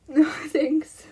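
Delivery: quick whispered no; whispered refusal. Real, not acted. Streamer whispering a refusal to chat. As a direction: brush it off in a whisper.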